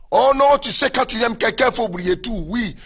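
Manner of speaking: starts high and loud as a lovestruck believer, then settles; hammed-up protest of a believer in love; the pastor mimics a believer defending a partner, high and loud; mock lovestruck plea.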